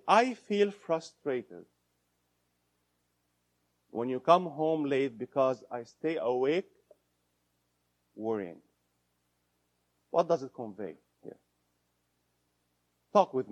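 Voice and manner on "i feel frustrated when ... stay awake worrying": slow, calm owning of feeling; I-statement. Shown as a demonstration. Therapist contrasts blame with a calm I-statement. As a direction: own the frustration gently. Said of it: "Big difference when you say".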